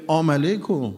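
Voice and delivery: "آم علیکم" with the "sal" swallowed; mispronounced greeting. Retold or imitated. Commander greets the martyr in his own words, garbled greeting. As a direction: echo the garbled salam as "آم علیکم". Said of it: "در اومد به این گفت که".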